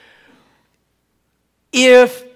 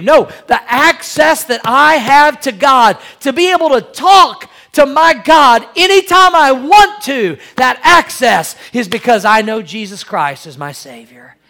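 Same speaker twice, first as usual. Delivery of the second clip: emphatic preaching; 3 semitones higher, 5 dB louder than usual. Real, not acted. Preacher rising to emphatic point.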